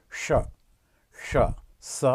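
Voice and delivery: স as a palatal sh, tongue curled to the palate; demonstrating the palatal sh. Shown as a demonstration. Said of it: "জিভটা মুড়ে ওই তালুতে একটু স্পর্শ করে".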